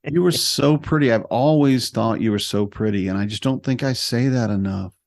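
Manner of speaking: slow, dreamy husband; lightly voiced, blissed-out dad; mellow stoned Red. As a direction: drift through it like he's high. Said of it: "he sounds like he's high to me".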